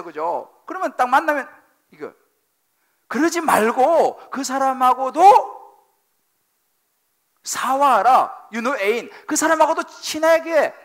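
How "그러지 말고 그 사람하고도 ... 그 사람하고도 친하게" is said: preaching at full force. Acted. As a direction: plead and command at once. Preaching command to reconcile.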